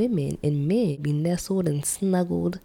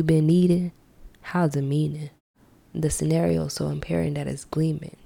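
measured slam poetry delivery; spoken word poem. Acted. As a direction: perform the poem with bite. Reads her spoken word poem.

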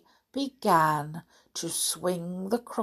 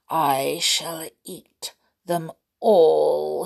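sly crocodile voice; 4 semitones lower, slower than usual. Acted. Villain crocodile plotting aloud.

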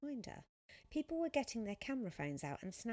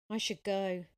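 abrupt, louder decision to leave; sudden; 2 semitones higher, 9 dB louder than usual. A narrator's reading. Sophia spotting girls taking photos, sudden. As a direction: blurt it out suddenly. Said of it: "she said suddenly".

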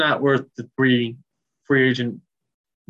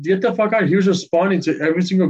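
indignant outburst, slightly raised pitch; worked up and exasperated; salty; 4 semitones higher, faster than usual. Real, not acted. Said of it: "J J salty".

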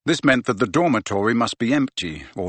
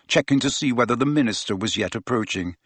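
plain reading voice

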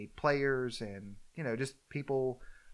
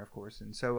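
ordinary delivery

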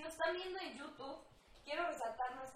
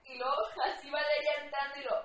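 louder excited telling; excited retelling; 14 dB louder than usual. Real, not acted. Friend excitedly retelling the flashback, louder. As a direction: pile it on excitedly.

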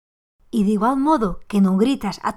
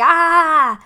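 grito de desahogo; 6 semitones higher, 7 dB louder than usual. Shown as a demonstration. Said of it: "non grito porque".

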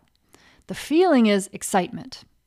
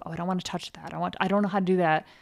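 tentative; faster than usual. Retold or imitated. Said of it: "You might be tentative".

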